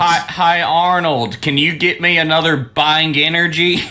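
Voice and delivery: put-on Southern accent; hammed-up Southern cartoon voice; Stinky. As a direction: imitate a Southern cartoon character asking. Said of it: "that southern voice is the Stinky character".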